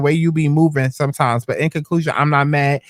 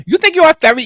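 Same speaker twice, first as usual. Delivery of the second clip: much higher, louder incredulous mockery; mocking disbelief; 12 semitones higher, 6 dB louder, faster than usual. Real, not acted. Mocking a friend's text, in shrieking disbelief. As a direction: scoff at her like it's absurd.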